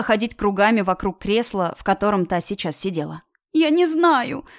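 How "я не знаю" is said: wailing. A narrator's reading. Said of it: "разревелась уже в голос Кира".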